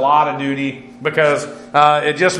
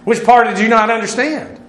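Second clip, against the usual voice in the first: higher-pitched, needling comeback; pointed retort; 6 semitones higher than usual. Acted. Accuser answering a guilty man's denial, pointed and higher-pitched. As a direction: throw the question back at them.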